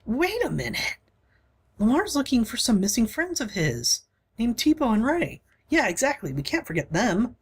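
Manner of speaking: put-on a young ally jumping in; lightly voiced eager companion. Voicing a younger party member.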